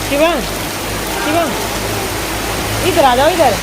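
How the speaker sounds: high, loud call to come over. Real, not acted. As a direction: call someone back through the rain. Calling Shiva over in rain.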